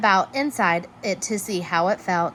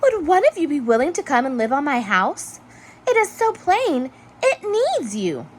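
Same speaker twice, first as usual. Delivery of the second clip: Hermit Crab pleading; 7 semitones higher than usual. A narrator's reading. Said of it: "said Hermit Crab".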